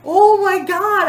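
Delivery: high, loud, drawn-out gasp of shock; reliving the shock. Retold or imitated. Telling about the raccoon in the coop, a high loud shocked cry. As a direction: let the horror spill out slowly.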